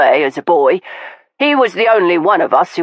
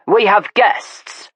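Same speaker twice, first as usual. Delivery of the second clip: slow, pointed reminder; reminding; 5 semitones higher, slower than usual. Acted. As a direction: rein them in calmly. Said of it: "Malcolm reminded them".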